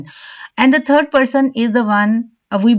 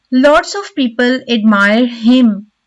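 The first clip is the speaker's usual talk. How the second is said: "him" given clear weight at the end; stress on "him". Shown as a demonstration. Teacher giving an example sentence, stress on "him". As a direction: finish the sentence leaning on "him". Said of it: "The stress is on the word him".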